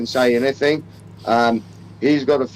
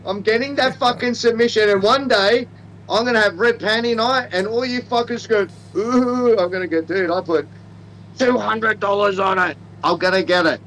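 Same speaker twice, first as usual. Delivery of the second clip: hammed-up Australian; 3 semitones higher than usual.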